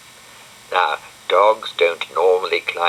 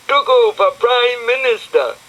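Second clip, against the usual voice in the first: crowd cheer; 6 dB louder than usual. Acted.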